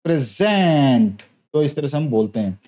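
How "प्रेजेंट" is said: प्रेजेंट slow, with the stress moved to the second syllable जेंट; verb stress demo. Shown as a demonstration. Teacher showing the verb stress on प्रेजेंट. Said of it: "ये verb बन जाएगा".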